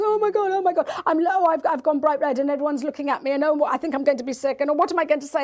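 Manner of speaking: anxious child spiralling before going out, mock panic; imitating panic. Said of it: "is the panic".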